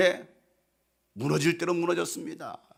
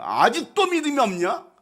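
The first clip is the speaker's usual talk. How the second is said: rebuke; 5 semitones higher than usual. Acted. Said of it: "이렇게 책망하시죠".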